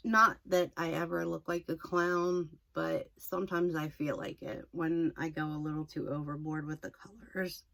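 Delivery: slightly hoarse, worn voice; losing voice. Real, not acted. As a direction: voice going hoarse. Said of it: "I'm losing my voice".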